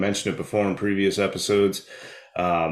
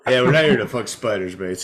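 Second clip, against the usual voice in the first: mock Aussie repeat; 3 dB louder than usual. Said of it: "the Australian accent".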